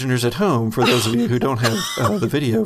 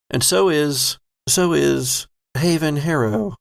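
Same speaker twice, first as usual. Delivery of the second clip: slow, deliberate scene-setting with weighted words; game master narration; slower than usual. A narrator's reading. Game master walking a player through a rescue attempt, slow narration. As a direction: draw out the phrases with suspenseful gaps.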